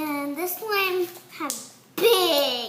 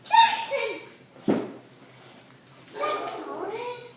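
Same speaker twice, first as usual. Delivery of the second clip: calling the dog; 8 semitones higher, slower than usual. Real, not acted. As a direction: yell his name, much higher.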